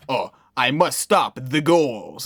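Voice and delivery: slow, mock villain delivery; Ezekiel. Cutting to the villain mid-scene, slow hammed-up villain voice. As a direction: ham up a villain's dramatic vow. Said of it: "you'll cut to him and it's just like".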